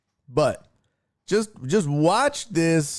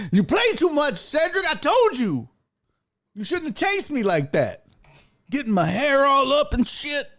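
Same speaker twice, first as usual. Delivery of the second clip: very high, pleading whine; whiny dog; 10 semitones higher than usual. Acted. Streamer voices the dog whining at the bully cat, high. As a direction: complain like a hurt pet. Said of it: "That dog like".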